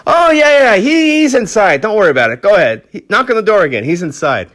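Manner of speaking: put-on high, loud drunken holler easing off; imitated drunk, starting at a shout and settling down; drunk man calling out. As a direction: holler helpfully like a drunk bystander. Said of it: "a drunk guy who's, like, on the ground".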